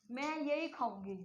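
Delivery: slow, deliberate weight on यही; word stress demo. Shown as a demonstration. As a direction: stretch the phrase and insist on यही. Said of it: "किस word के ऊपर जो stress".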